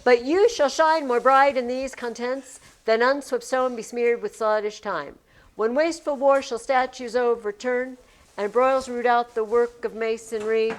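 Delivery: measured verse recitation; formal poem reading. Shown as a demonstration. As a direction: read the sonnet lines evenly. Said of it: "reading sonnet aloud".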